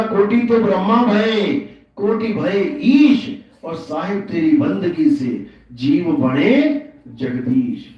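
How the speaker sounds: slow, measured couplet recital; verse recitation. Acted. Preacher quoting a saint's couplet to followers, slow verse recitation. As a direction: recite the verse with drawn-out words.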